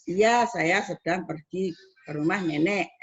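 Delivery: slow statement, pitch settling down on "rumah nenek"; falling statement intonation. Shown as a demonstration. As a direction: let "nenek" drop like a full stop. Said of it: "Intonasinya turun".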